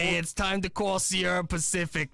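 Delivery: mock New York-accented ad read; teasing New York accent; old New York lady. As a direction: imitate an elderly New Yorker. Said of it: "like, New York lady".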